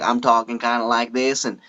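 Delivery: lightly put-on Southern accent; a touch of folksy Southern twang. Shown as a demonstration. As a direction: talk like a Southern good old boy, lightly. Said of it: "your Southern accent kinda thing".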